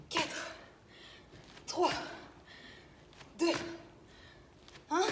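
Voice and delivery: straining mid-exercise; talking while jumping squats; doing squat jumps. Real, not acted. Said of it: "Oh, il est dur lui".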